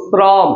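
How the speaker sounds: শ্রম said "srom", s running straight into r; one syllable শ্রম with no vowel after the s; s cluster. Shown as a demonstration. Teacher giving pupils an example, s cluster. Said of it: "শ্রম বলি".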